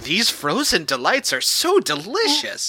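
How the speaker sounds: slow, savoring line reading, pitch swooping; lightly hammed-up alien delight; mock alien dialogue. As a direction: draw it out like hammy TV dialogue. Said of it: "even their dialogue is like".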